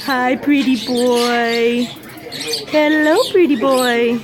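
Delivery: low slow tender coo. Real, not acted. Cooing to pet bird.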